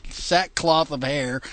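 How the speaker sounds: reading scripture aloud, steady and measured; King James reading. Acted. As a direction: read it like a Bible passage. Reads scripture.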